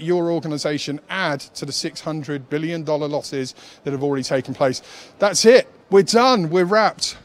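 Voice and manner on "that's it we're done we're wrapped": excited. Real, not acted. Host wraps up the show.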